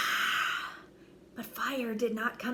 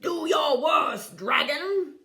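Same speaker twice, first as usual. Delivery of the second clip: defiant declaration; 5 semitones higher, 6 dB louder than usual. A narrator's reading. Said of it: "declared the shiny man".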